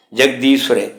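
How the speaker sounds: ਜਗਦੀਸ਼ਵਰੇ with a short v after the s; half-v pronunciation. Shown as a demonstration. Teacher demonstrating the letter under s, half-v pronunciation. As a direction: sound the subscript v in ਜਗਦੀਸ਼ਵਰੇ. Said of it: "ਇੱਥੇ ਵਵੇ ਦਾ ਉਚਾਰਨ ਹੋਣਾ ਹੈ".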